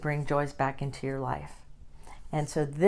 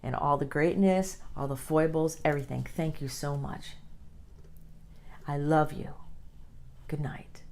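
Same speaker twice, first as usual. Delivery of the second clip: tender self-talk. Shown as a demonstration. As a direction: thank yourself gently before bed. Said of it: "So I would say".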